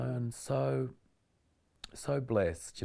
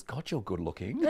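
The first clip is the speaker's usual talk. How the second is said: laughing. Retold or imitated. Retelling inner thought mid-scene.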